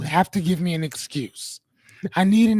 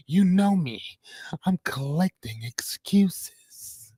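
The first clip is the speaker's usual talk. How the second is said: whisper; slower than usual. Acted. Conspiratorial aside to chat.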